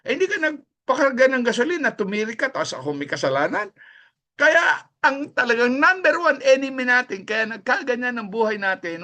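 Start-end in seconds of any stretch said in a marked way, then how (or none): 0.1-3.7 devil talking. Retold or imitated. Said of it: "O kaya".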